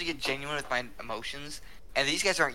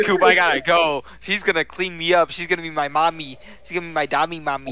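louder, eager mock urgency; excited retelling; 2 semitones higher, 5 dB louder than usual. Telling Coop he's off with the girl, loud and eager. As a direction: blurt it out like you can't wait to leave. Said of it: "I was like".

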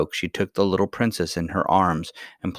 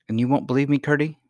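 higher-pitched, mildly tearful expostulation; tearful reproach; 7 semitones higher, faster than usual. A narrator's reading. Princess pleading to be believed, tearful reproach. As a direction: reproach him, a touch of tears in it. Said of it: "now fairly crying with vexation".

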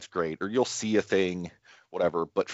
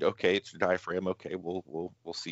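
much softer murmured inner voice; quiet self-talk; 6 dB quieter than usual. Retold or imitated. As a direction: mutter to yourself, trailing off. Quoted self-talk fading to murmur.

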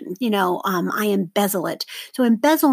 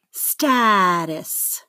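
"Status" with STA drawn out; stress on first syllable. Shown as a demonstration. Teacher models for seventh graders to mark, stretched stressed STA in "Status". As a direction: say "Status" as STA-tus, falling away after STA. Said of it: "circle the stress syllable".

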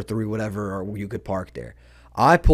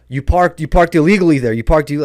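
imitating spazzing man; 3 semitones higher, 6 dB louder than usual. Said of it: "he was spazzing".

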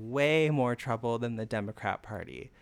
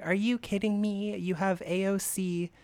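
raised, indignant cut-in; mock outraged interruption; 6 semitones higher than usual. Podcaster imitates Meghan interrupting Joy, mock outrage. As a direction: scoff like you can't believe it. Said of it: "she interrupts Joy and she's like".

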